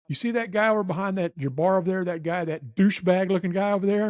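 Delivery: lightly voiced irate Marine; mad drill sergeant. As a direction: imitate an angry customer singling out a culprit. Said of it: "he was mad".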